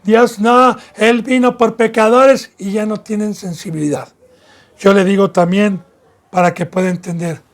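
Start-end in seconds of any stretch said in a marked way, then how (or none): 0.0-2.5 mildly raised, slow mock of hardened scoffers. Preacher voicing scoffers brushing off rebuke, mild mocking tone. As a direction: lightly imitate someone brushing off a rebuke. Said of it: "se burlan y dicen".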